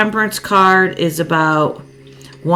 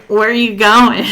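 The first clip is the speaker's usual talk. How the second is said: higher, louder, half-laughing bewildered question; confused where are you going; 5 semitones higher, 6 dB louder than usual. Retold or imitated. Reader voicing the abandoned partner, mock bewildered. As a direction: playfully act out a partner wondering where he went. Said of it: "She's like".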